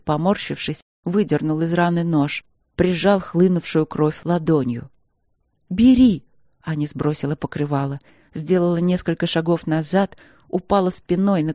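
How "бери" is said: Бери flung out much higher and louder; desperate cry of Бери; furious shout. A narrator's reading. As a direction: spit Бери at him like a dare. Anya offers herself in fury.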